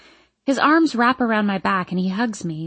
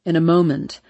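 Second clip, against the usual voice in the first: Hardin; 4 semitones lower, 3 dB louder than usual. A narrator's reading. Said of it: "but Hardin says".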